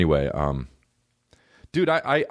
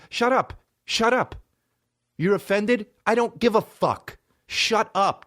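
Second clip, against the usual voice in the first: high ranting shut up; 9 semitones higher than usual. Real, not acted. Yelling at critics.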